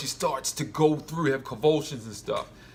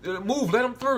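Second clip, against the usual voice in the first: mock captain's order; 11 semitones higher, 4 dB louder than usual. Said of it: "then Pike's like".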